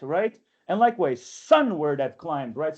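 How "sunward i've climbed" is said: slow stressed reading of "Sunward I've climbed"; scanned slowly. Shown as a demonstration. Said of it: "he wants you to enunciate this".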